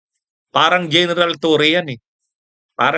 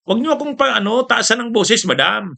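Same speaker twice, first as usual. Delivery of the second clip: higher mock retort, no real shouting; retold sharp answer; 7 semitones higher than usual. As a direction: pitch jumps up, easing down on "madam". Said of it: "nung tinataasan ng boses yata si Matibag, sinagot ni Matibag".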